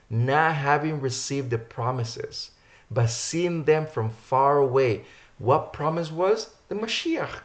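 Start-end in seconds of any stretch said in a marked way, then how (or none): 0.1-5.0 slow, deliberate weight on "not having received" and "far away"; emphatic rereading. Real, not acted. Preacher rereads the verse for listeners, slowly stressing each phrase. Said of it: "emphasize this".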